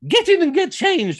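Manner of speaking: high, loud, slow command; bossy order. Retold or imitated. Wife ordering her husband to change, loud slow command. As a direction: bark the order at him, drawn out.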